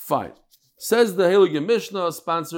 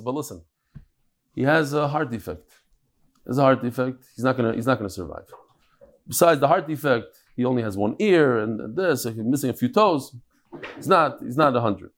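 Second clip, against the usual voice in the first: lower, subdued voice breaking bad news; grave bad news; 4 semitones lower than usual. Doctor warns the new father of defects, grave. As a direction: let him down gently, low.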